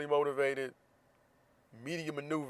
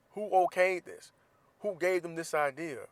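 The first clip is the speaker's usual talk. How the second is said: exasperated outburst; 5 semitones higher, 4 dB louder, slower than usual. Real, not acted. Outraged at kids' costumes.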